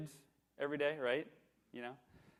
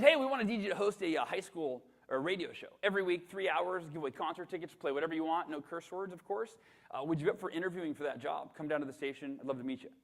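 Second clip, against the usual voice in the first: radio voice; 3 semitones higher than usual. Retold or imitated. Radio manager voiced again.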